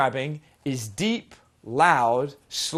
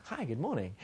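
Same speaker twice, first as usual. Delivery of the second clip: happy, smiling; 2 semitones lower, 10 dB quieter than usual. Shown as a demonstration. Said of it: "The happy person that smiles".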